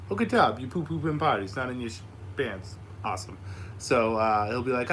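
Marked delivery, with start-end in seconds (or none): 0.1-2.8 dad praising his son's potty win, high and bright; praising a toddler. Retold or imitated. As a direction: cheer him on like a proud dad.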